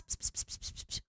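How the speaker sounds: unvoiced psst calls; whispered psst. Streamer trying to lure a lurker out, whispered psst. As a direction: hiss for a hidden friend's attention. Calling a lurking chatter.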